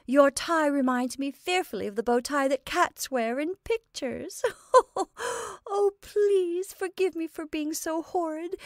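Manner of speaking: high-pitched words breaking into giggles; helpless laughter. A narrator's reading. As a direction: stammer and plead through a fit of laughing. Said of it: "She began laughing".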